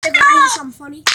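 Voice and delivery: high, fast, excited tease; eager pitch. Real, not acted. Kid eager to tell his brother a funny story, high and fast. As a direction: bounce it out eagerly.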